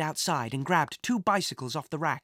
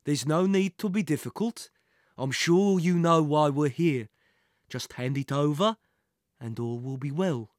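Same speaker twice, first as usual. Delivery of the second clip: a hint of smooth menace; villain feigning reasonableness; lightly voiced coaxing villain. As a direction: coax the captive to give in. Villain coaxing his captive.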